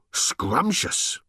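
gasping, high robot swoon; rapturous robot. A narrator's reading. Robot recalling the old days, rapturous. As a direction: relish the word in giddy ecstasy.

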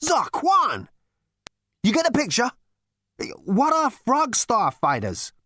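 high, loud, agitated questioning; exclaim, then demand an explanation; agitated exclamation. Acted. Zaphod learning fighters are after him, agitated high outcry. Zaphod reacts to the attack news.

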